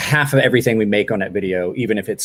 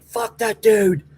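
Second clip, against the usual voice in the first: slow, higher, drawn-out scorn; mock offended viewer; 11 semitones higher, much slower than usual. Streamer imitating the banned viewer's scorn, slow and higher. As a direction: drag out the insult in a put-on voice. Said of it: "He's like".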